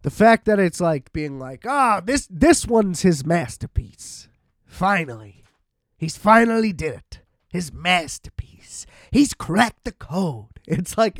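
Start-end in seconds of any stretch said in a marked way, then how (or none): 1.7-10.6 mock awe. Mocking critics hailing a masterpiece.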